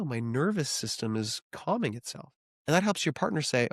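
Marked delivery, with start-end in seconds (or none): 0.0-2.3 calming down. Real, not acted. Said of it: "I can even feel it in me right now".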